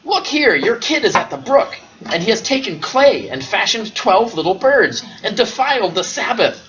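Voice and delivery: a nosy neighbour reporting mischief; tattling neighbour. Acted. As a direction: run to the father and tell on the kid.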